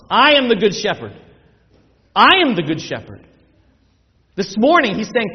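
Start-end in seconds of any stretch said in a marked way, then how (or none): 0.1-3.3 proclaiming as the Lord. Acted. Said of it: "we've got the Lord himself standing there saying".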